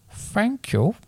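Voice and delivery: tiny, high, soft bird voice; a little rook thanking shyly; small high voice. A narrator's reading. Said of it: "it said in a small, high voice".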